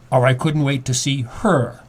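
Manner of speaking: "her" given the weight at the end; stress on her. Shown as a demonstration. Host demonstrating a second reading, stress on "her". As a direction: land the line on "her". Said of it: "which word you emphasize".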